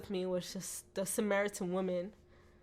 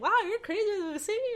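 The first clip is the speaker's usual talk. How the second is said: high-pitched, loud mock amazement; imitating amazed friends; 12 semitones higher, 6 dB louder than usual. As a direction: exclaim it high, as an astonished onlooker would. Friends amazed at her wild worship.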